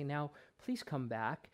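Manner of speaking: mild, soft, quiet, gentle voice. Showing how a parent would not call back a running child: soft quiet voice. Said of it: "use your soft, quiet voice and say".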